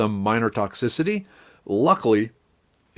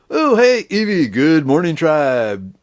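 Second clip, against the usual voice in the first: high excited greeting; 6 semitones higher, 5 dB louder, slower than usual. Real, not acted. Cheerful greeting to chatter.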